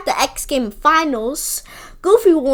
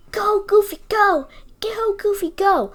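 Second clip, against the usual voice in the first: higher, flat half-hearted cheer; mock bad cheer; 5 semitones higher than usual. Mimicking Sylvia's bored cheer for Goofy, mock flat. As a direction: parody the limp voice acting. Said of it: "the voice acting in that scene is terrible".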